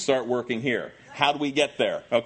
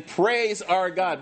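slow, high imperative; commanding; 4 semitones higher, much slower than usual. Acted. Preacher voicing the voice from the throne, commanding. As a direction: order it with drawn-out weight. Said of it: "that's a command".

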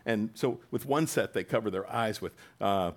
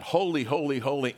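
angels crying out; 4 semitones higher, 4 dB louder than usual. Retold or imitated. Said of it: "if angels cry out like that".

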